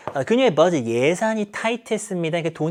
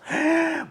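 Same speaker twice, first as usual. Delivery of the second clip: sharp high gasp; acted startled intake of breath; surprised gasp; 13 semitones higher than usual. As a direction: gasp at the sight of her. Acting surprise at Cora's entrance.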